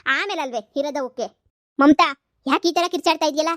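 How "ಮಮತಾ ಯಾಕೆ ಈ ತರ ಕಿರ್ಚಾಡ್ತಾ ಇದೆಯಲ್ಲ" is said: loud scolding call. Acted. In-law scolds Mamata for shouting.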